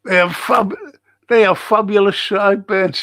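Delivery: lightly put-on quoting voice; quoting Mister P. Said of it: "says Mister P".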